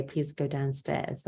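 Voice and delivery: one gentle step at a time; calm and simple. Shown as a demonstration. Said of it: "tell them calmly and simply".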